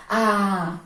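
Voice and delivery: "A" drawn out as a separate syllable; teacher's stretched first syllable "A"; isolated syllable demo. Shown as a demonstration. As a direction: sound out "A" alone, held long. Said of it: "a palavrinha afinal que nós usamos aqui".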